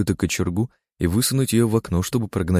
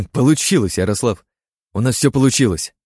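excited cheer; 5 semitones higher, 4 dB louder than usual. Acted. Experiment succeeds, narrator cheers.

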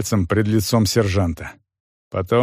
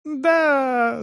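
high cry; 14 semitones higher than usual. Acted. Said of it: "заорал калека".

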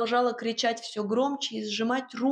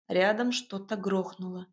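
plain reading voice

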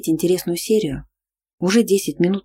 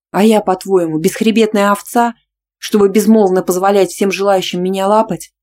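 loud, offended retort; loud indignant retort; 3 semitones higher, 7 dB louder than usual. Acted. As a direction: fire it back. Heroine retorts loudly.

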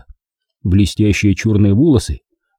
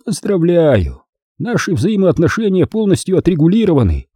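higher, icy mock congratulation; sneering boss; 8 semitones higher than usual. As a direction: congratulate him with cold contempt. Vaughan's sneering lines.

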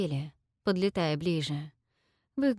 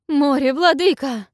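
much higher, loud wail; wailing cry; 8 semitones higher, 10 dB louder than usual. A narrator's reading. Queen begs for the sea, wailing cry. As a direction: wail it to the sky. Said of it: "возопила Алшеришма".

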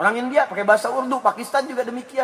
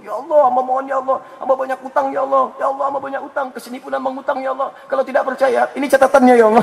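mock pleading prayer; 5 semitones higher, 4 dB louder than usual. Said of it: "Yang lebih spesifik lagi ada".

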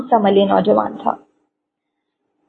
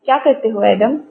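heavy commanding voice. A narrator's reading. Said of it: "بھاری روبدار آواز میں پوچھا".

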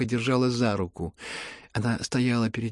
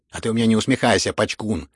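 mild angry attack; 6 dB louder than usual. Acted. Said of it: "накинулась она вдруг на Ипполита".

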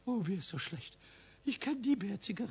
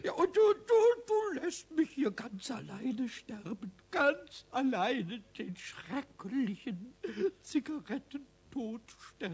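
slow, sorry-for-himself lament; self-pitying whine. Acted. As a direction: whine as if dying alone. Pumuckl begs him to stay.

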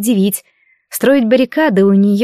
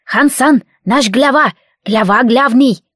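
creaky bandit voice; 3 semitones higher, slower than usual. Acted. Bandit voice continues.

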